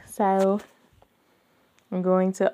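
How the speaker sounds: ordinary talk, nothing marked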